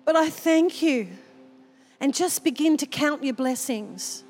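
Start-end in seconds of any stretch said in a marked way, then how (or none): 0.0-1.1 grateful prayer. Shown as a demonstration. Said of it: "every morning and say".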